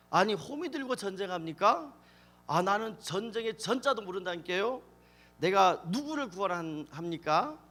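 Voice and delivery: lightly acted Jeolla dialect protest; 전라도 사투리. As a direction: object like a country farmer with a hint of Jeolla lilt. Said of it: "제가 전라도 버전으로 하면". (전라도 사투리를 살짝 흉내 낸 항변)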